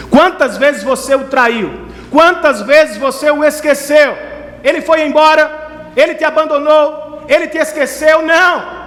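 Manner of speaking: high, impassioned pulpit delivery; preaching at full force. Acted. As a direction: thunder God's promise to the congregation, stretching key words.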